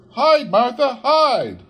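put-on high, loud children's urging; excited whisper-shout. A narrator's reading. Children tell Martha to hide, high eager urging. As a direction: hurry her into hiding, high and loud.

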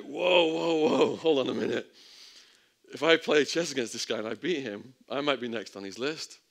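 sudden loud alarmed whoa, then pleading. Retold or imitated. To his cellmate, a loud alarmed protest. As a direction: panicky and loud, backing out fast. Alarmed reaction to chess offer.

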